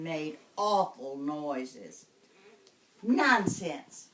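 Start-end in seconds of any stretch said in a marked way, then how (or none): 3.0-4.1 calm. Acted. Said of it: "said Nicky's mother calmly".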